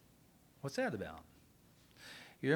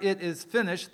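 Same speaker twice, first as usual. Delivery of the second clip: loud cry; 4 semitones higher, 6 dB louder than usual. Acted. Jesus cries out on the cross.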